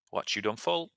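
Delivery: a cheeky mock-tough asking of the line, rising at the end; marked street-style take. Shown as a demonstration. Teacher acting a student's line in a put-on voice before correcting it. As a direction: ask it like a gruff local lad, pushing the question up. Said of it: "You don't have to say it like that".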